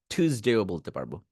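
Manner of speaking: টিউসডেও with ঠ; ঠ version. Shown as a demonstration. Teacher contrasting the two টিউসডে forms.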